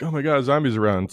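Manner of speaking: lightly hammed-up panic; mock alarm. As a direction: act out a bystander spotting danger. Acting out alarmed onlookers.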